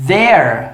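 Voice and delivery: "there" said slowly and cleanly as the contraction; pronunciation demo. Shown as a demonstration. Teacher showing how the contraction sounds, careful. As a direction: model "there" carefully for the class. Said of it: "Olha a pronúncia".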